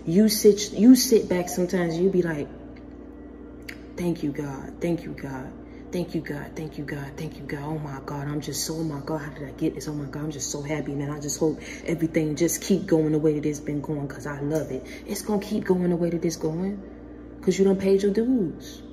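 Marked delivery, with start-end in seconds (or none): 4.0-14.9 soft, hushed thank-you to God, mock overwhelmed; grateful murmur. Listener quietly thanking God in disbelief, hushed. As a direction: whisper thanks like someone stunned by blessings.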